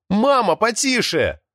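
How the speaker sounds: high, drawn-out call to mum; pleading request. A narrator's reading. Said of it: "попросил Артём".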